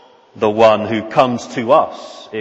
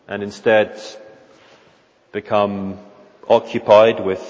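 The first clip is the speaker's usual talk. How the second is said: gentle loving reassurance. Acted. Jesus to the frightened disciple Peter: gentle reassurance. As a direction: coax him back to trust. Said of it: "of gentleness and of love".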